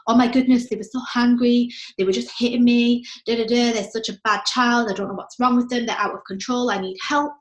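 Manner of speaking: mock frazzled mum complaining; exasperated parent. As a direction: play the overwhelmed parent venting. Stressed parent voiced in example.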